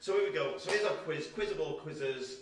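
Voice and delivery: loud, bold game show announcer; big announcer build-up for the quiz; quiz host hype. Acted.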